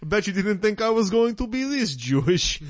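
hammed-up Dracula-style Jewish accent. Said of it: "Count Dracula Jewish".

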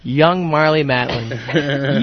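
slow, dreamy, laughing adoration; drawn out like a lovesick sigh; airy gushing darling tone. Acted. Swooning over young Marlee Matlin.

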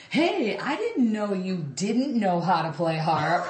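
slow, drawn-out deadpan dig at a bandmate; imitating a guitarist. Retold or imitated. Bandmate teasing the drummer who grabbed the harp, imitated slow drawl. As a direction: stretch the words out slowly, mock innocent.

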